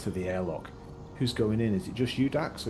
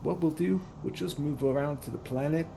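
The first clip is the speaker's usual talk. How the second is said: put-on Southern hick accent; 5 semitones higher than usual. Bell tells Dax she's unhappy, Southern hick accent. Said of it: "It's kind of like Southern, kind of Hicks".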